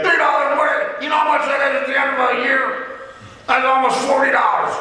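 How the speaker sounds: put-on high, quick, indignant old-man voice; a son mimicking his thrifty dad, high and fast; imitating his cheap dad. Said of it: "he would talk like his dad".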